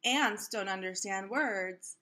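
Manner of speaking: lively storybook read-aloud voice; reading to children. A narrator's reading. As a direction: read it like story time for a class. Reads picture book aloud to kids.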